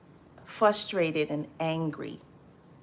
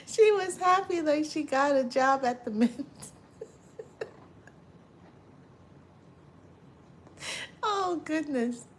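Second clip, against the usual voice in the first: higher, laughing disbelief; amused disbelief; 8 semitones higher than usual. Real, not acted. Laughing at absurd story.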